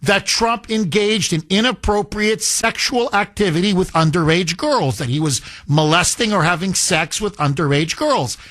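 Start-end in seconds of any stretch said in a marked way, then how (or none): none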